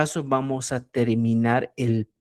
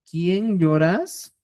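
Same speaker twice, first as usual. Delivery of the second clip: slow question; 4 semitones higher, much slower than usual. Shown as a demonstration. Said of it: "Fíjate".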